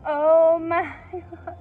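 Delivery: loud, slow delighted gasp; excited. Real, not acted. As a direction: stretch it out in delight. Excited over a singer.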